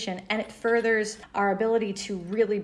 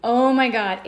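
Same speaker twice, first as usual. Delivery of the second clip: excited exclamation; 4 semitones higher, 10 dB louder, slower than usual. Real, not acted. Enthusiastic exclamation about event.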